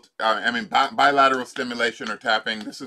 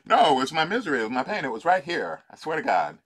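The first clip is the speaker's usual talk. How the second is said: playful mock insistence; mock protest; 4 semitones higher than usual. Coach jokes about missing the pain, mock insisting. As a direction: protest like you've lost something dear, tongue in cheek. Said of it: "You can say that too".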